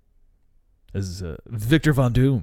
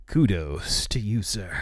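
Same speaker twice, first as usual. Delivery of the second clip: whispering; 4 semitones lower, slower than usual. Real, not acted. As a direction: whisper it slowly. Whispered praise to Jackman.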